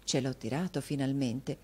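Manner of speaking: tra sé, a voce più bassa; pensiero sommesso. Acted. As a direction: lo dice a se stessa, compiaciuta. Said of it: "pensava la signorina Squeers". (pensiero interiore, sottovoce)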